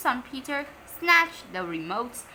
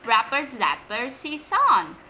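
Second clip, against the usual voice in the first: bossy order; 5 dB louder than usual. Acted. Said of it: "ordered Henry".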